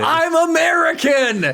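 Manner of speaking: high, loud, slow protest; mock indignant shout. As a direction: shout it back in mock outrage. Retort to the accent teasing.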